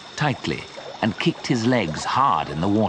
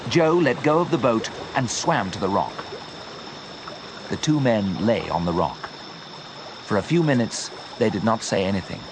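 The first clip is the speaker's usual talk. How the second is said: plain reading voice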